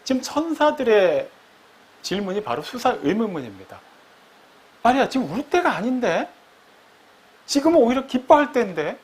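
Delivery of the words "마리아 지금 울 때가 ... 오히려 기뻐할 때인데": higher, lightly voiced angel urging her to stop; a touch of a pleading rebuke; gently chiding angel. Angel urging weeping Mary to stop, lightly pleading. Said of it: "얘기하는 거예요".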